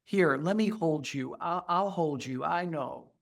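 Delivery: put-on soft comforting of a baby; gently calm an infant; soothing. Talking to a crying baby, soft and soothing. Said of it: "when I say to them".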